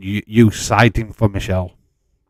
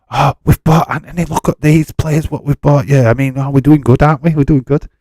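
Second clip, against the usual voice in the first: higher, louder smug parroting; sarcastic mock boast; 5 semitones higher, 7 dB louder than usual. Streamer mocking the owners' transfer boasts, sarcastic and louder. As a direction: sneer it like a smug club owner.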